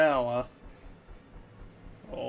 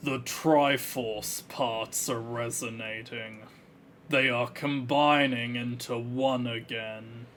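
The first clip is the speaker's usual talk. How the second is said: Ganondorf voice; 2 semitones lower than usual. Acted. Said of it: "my ability to do the Ganondorf voice".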